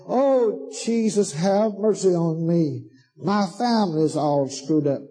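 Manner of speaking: mock crying plea. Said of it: "come crying and saying".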